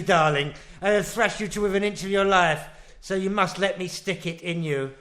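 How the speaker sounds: lightly voiced pompous old-film husband; a hint of a domineering 1940s gent, brisk; posh film husband. Husband bossing his wife, lightly voiced posh film gent. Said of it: "Stuart Granger".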